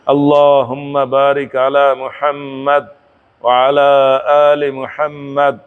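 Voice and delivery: slow, even reciting of the Arabic text; measured prayer recitation. Shown as a demonstration. Teacher reciting tashahhud for students, slow and measured. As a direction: recite it deliberately, word by word.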